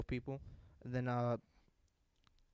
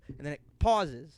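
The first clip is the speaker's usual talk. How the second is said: ordinary talk, nothing marked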